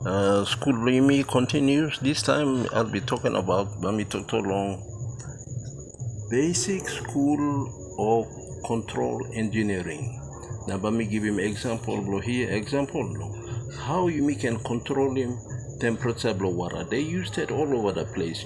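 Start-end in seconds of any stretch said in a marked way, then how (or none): 2.0-4.8 Tok Pisin words in English talk; papua new guinea pidgin. Real, not acted. Teacher mixing Tok Pisin phrases. 10.7-16.8 Tok Pisin lesson talk; papua new guinea pidgin. Real, not acted. Teacher explains in Tok Pisin.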